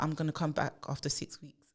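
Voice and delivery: hushed and breathless with certainty; whispered plan. Retold or imitated. Lawyer telling the office her leave plans, whispered. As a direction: whisper it like a confident secret. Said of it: "and she was like".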